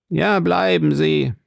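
high, lightly trembling plea to stay. A narrator's reading. Wife urging the departing guest to stay, trembling voice. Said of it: "mit zitternder Stimme".

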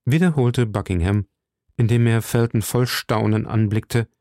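ordinary delivery, nothing marked

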